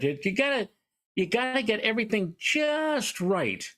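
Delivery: a light storybook bear voice, teasing; big bear voice. Pretend. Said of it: "said the big bear to, uh, the little bear".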